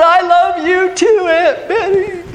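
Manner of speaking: high, loud niece's holler; yelled back. Retold or imitated. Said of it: "I yelled".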